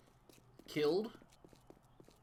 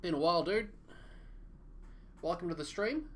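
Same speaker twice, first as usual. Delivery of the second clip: excited greeting; 6 semitones higher, 5 dB louder than usual. Real, not acted. Greeting a viewer in chat.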